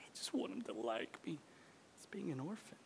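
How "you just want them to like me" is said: hushed people-pleasing. Acted.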